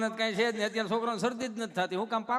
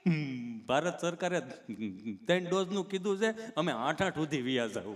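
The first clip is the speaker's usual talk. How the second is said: lightly voiced halting stammerer; a slight catch between phrases; tongue-tied Gabho; 4 semitones lower than usual. Gabho explaining to the nurse, mildly stammering. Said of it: "ચોંટે અટકે".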